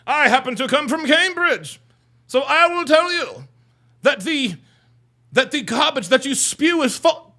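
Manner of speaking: lightly put-on learned Cambridge type; mock proper speaker. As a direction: imitate an affectedly refined commenter. Acting the commenter from Cambridge.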